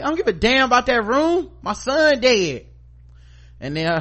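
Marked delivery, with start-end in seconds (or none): 0.0-2.7 high, loud furious shout; grieving mother shouting. Retold or imitated. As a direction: yell it at Maggie in grief. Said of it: "And she was like".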